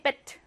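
베트 with a clipped, short e; 베트 said short and crisp; short vowel. Shown as a demonstration. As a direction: snap 베트 off quickly. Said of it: "그러니까 짧게".

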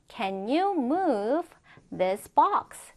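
very slow, pause before THIS BOX; chunked model reading. Shown as a demonstration. Teacher first modelling a question for students, chunked model reading. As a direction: draw it out in two chunks for learners.

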